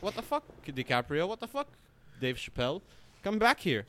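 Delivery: playful imitation of fans calling someone back; mock outraged crowd. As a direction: imitate an upset crowd yelling after him. Crowd upset at DiCaprio leaving.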